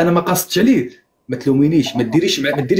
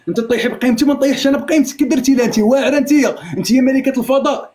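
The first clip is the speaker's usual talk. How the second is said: raised pitch, angry and accusing; heated accusation; 5 semitones higher than usual. Real, not acted. Husband scolds wife over the ring on live, heated higher voice. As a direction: push it higher as the anger builds.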